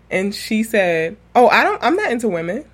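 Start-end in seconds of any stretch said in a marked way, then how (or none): 1.3-2.6 quick, slightly higher retold denial; really quick. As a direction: imitate a hasty denial. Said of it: "Like, really quick, y'all".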